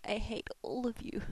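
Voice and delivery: whispered mock grudge; whispered playful sulk. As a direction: hiss it at your friends in jest. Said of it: "And I'll be like".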